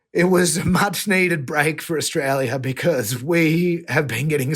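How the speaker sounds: holding back tears while telling the win; getting emotional. Real, not acted. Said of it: "I know I'm getting a bit emotional".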